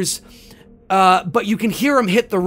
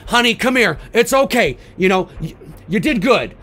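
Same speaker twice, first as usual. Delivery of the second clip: raised, higher voice calling her back; old sheriff calling the frightened girl back to safety; 4 semitones higher, 4 dB louder than usual. Retold or imitated. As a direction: call the girl over, reassuring but loud.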